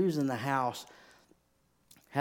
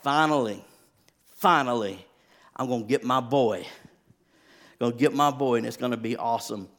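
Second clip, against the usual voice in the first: eager dad; 5 dB louder than usual. Retold or imitated. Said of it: "I'm like".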